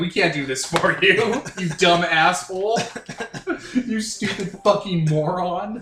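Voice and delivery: play-acted, very slow, loud, drawn-out, scornful tone. Joking about companions refusing the task: voicing companions insulting the player. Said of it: "The super mutant, the ghoul, the robot, they're like".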